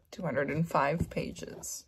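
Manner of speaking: shaky sigh, then whispered words; real teary breath out, half whispered. Real, not acted. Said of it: "trying not to cry anymore".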